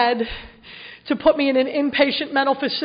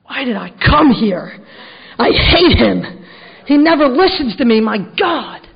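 put-on sulky teen; 3 dB louder than usual. Retold sulky teenage outburst.

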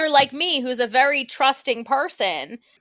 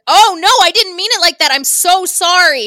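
rushed apology; 3 semitones higher, 4 dB louder than usual. Retold or imitated. Clawhauser begging Judy to let him start over, flustered. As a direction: gush a hurried sorry, eager to fix it.

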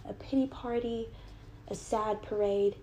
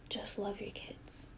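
slow, much softer whispered repeat; 9 dB quieter than usual. Real, not acted. Telling her absent mother to just love her kids, slow whisper. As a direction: breathe it out slowly, almost to herself.

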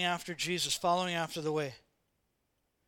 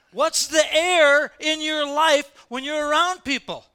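loud, slow, emphatic preaching; slow and loud to the congregation; 7 semitones higher, 11 dB louder, slower than usual. Acted. Preacher presses the congregation, loud and slow.

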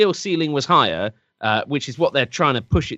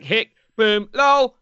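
mock gamer voice; 8 semitones higher, 4 dB louder, slower than usual. Mocking old quick hook play.

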